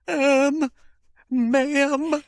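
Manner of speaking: high-pitched, timid plea; apologetic lost newcomer. Retold or imitated. American newcomer asking a Londoner for help, pleading. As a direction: approach a stranger with a pleading apology. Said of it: "and I was like".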